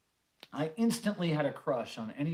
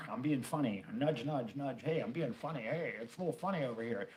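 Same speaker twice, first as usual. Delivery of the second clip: mock humor in a musician's style; 3 dB quieter than usual. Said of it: "And I was like".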